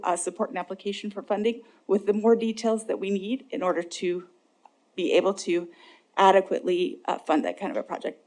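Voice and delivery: breathless, pausing between phrases; speaking short of breath with a chest cold. Real, not acted. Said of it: "I'm, like, really short of breath tonight".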